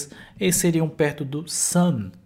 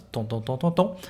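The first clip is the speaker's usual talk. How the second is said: imitated door knocking; 2 semitones lower than usual. Teacher retelling Daniela's arrival at the house, imitated knocking. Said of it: "bateu aqui na porta de casa".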